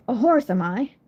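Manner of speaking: breathy, scornful retort; mock snort of contempt. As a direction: spit it back in disdain. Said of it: "she snorted".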